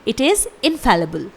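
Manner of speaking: slow model of infallible; careful teacher's repeat; slow clear pronunciation. Shown as a demonstration. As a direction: say it slowly for learners. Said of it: "spelling है".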